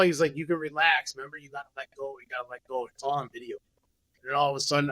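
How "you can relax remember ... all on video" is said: soothing coaxing. Retold or imitated. Friend coaxing him to let go.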